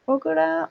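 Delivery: "Bogotá" with a tapped r for the t, "Bogorá"; imitated error, "Bogorá" in place of "Bogotá"; common mispronunciation. Shown as a demonstration. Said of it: "o dicen".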